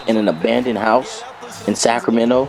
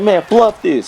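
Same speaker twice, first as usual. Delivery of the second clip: fed up; 8 semitones higher, 3 dB louder, slower than usual. Retold or imitated. Frustrated retold outburst.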